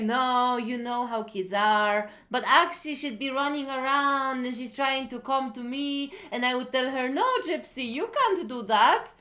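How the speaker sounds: lightly mocking impression of an excuse-maker; mock-innocent Southern granddad downplaying it; downplaying Southern man. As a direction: brush it off like it's nothing, voice lifting. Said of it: "he's very Southern and he's downplaying it".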